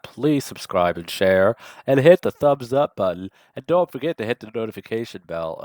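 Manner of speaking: hammed-up plea to subscribe; a playful, put-on marketing read; mock YouTuber pitch. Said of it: "I did my obligatory marketing".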